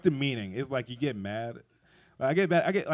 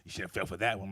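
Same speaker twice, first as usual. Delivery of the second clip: mocking laugh; 2 semitones lower than usual. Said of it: "He was laughing at me".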